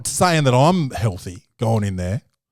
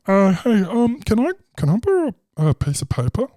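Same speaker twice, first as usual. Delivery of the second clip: timid nervous ask; 8 semitones higher than usual. Retold or imitated. Nervous comic asks paper.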